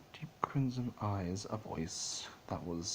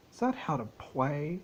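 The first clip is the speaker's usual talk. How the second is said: put-on curious child voice; 6 semitones higher, 5 dB louder than usual. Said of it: "the child wondered".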